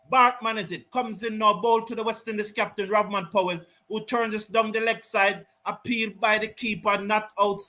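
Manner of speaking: calm live cricket commentary; play-by-play. Real, not acted. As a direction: call the delivery as it happens.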